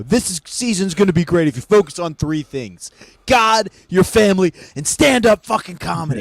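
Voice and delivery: lightly voiced hard-driving coach; coach's pep talk. Coach throwing the clipboard before class, a rousing pep talk. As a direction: punch out each priority like a coach. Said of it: "throw your clipboard and go".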